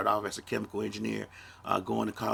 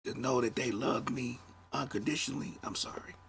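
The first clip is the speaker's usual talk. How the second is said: breaking into a tearful whisper; choked up. Real, not acted. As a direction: voice fading as tears come, a real apology. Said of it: "I'm getting emotional".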